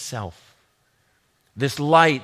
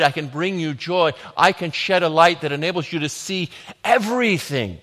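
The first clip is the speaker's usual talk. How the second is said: ringing, louder proclamation in the first person; preached voice of Jesus; 2 semitones higher, 5 dB louder than usual. Acted. Preacher voicing Jesus to the congregation, proclaiming loudly. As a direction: declare it as Jesus, rising and full. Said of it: "Jesus is saying".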